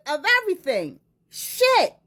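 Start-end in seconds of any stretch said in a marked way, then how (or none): 1.3-1.9 high squealed curse; shocked curse. Real, not acted. Reacting to the allegation, a high shocked curse.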